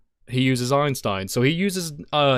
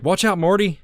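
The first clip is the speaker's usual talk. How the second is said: higher, louder urgent call to Marty; Doc's warning; 8 semitones higher, 4 dB louder than usual. Retold or imitated. Host imitating Doc Brown warning Marty, high urgent call. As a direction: yell a quick warning like Doc. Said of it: "he's like".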